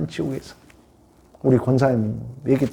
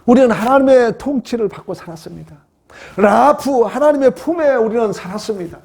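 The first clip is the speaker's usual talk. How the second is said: raised, emphatic sermon voice; preaching proclamation; 10 semitones higher, 4 dB louder than usual. Real, not acted. Preacher declaring life in God's embrace, proclaiming. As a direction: proclaim it to the congregation.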